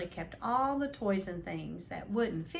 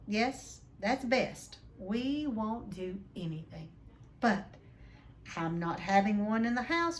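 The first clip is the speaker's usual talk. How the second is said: blustering uncle; 4 semitones higher than usual. Acted. Vernon voiced in read story.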